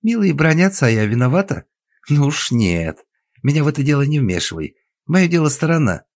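high loud scornful taunt; scornful loud reply; loud mocking retort. A narrator's reading. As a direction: throw it back loudly.

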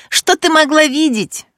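high, loud cry of protest. Acted. Alexandra shouting at Irina in protest. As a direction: hurl the question at her. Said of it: "Александра кричала в голос".

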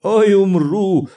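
громкий возглас сквозь хохот; простони сквозь раскатистый смех; хохоча. A narrator's reading. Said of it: "раскатисто захохотал". (громко, изнемогая от смеха)

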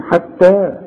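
حتى with the final alif lengthened; light ta, long final vowel on حتى; vowel held two counts. Shown as a demonstration. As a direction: draw out the last "aa" of حتى for two beats. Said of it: "عشان تمدها لي حركتين".

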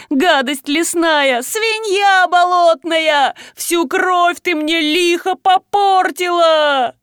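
high, slow, drawn-out keening; mock wailing curses. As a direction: wail and curse like a hammed-up mourner. Fake wailing curses to lure Likho.

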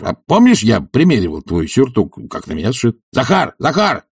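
a hint of an impatient master's call; lightly voiced bully calling out. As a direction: bark for the old servant. Tarantyev calls Zakhar rudely.

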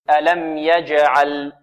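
slow tajweed recitation; careful teaching recitation; model recitation. Shown as a demonstration. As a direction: draw out ألم يجعل evenly for students. Teacher recites verse words as model.

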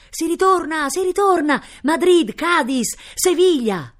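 high, loud cheering from the treetops; jubilant cries. Acted. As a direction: shout the good news joyfully. Exiles cheer the news of return. (grida di esultanza)

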